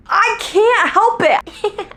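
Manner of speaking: high, slow squeal through laughter; laughing. Real, not acted. Confessing her guilty pleasure, laughing high and slow. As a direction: laugh it out helplessly.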